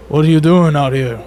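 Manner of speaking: lightly voiced worker calling over. A worker hailing travellers in the snow, calling out. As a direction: call a question out to strangers. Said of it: "and they're like".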